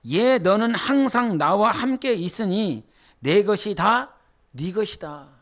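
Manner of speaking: slow, gentle father's voice on 너는 항상; the father comforting his elder son, slow and tender. Acted. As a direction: let the father reassure his son slowly. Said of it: "아버지가 이르되".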